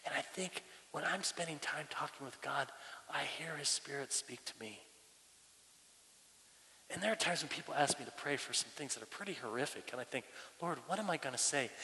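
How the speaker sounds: soft, intimate reflection; quiet sincerity. Real, not acted. Pastor confiding how he talks with God, softly sincere. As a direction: share it gently, well below preaching volume. Confiding his experience of prayer.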